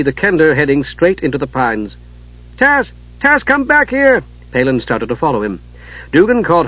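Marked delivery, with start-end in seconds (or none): 2.6-4.2 calling out. A narrator's reading. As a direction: call him back across the clearing. Calling Kender back from danger.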